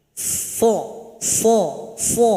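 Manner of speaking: "So" thick and full, voice lifted toward the palate; heavy sad. Shown as a demonstration. Teacher demonstrating the heavy sad letter to students. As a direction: say "so" heavy, tongue pressing up. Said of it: "suara kita harus naik ke langit-langit".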